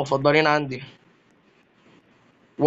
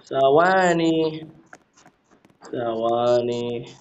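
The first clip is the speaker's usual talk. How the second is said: drawn out; much slower than usual. Pretend. Stretching out "wait" while waiting.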